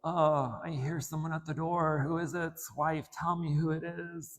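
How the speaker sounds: a hint of a doddering old king calling to his wife; mild old-man voice, asking who is at the door; old man act. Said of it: "he even played the part real well".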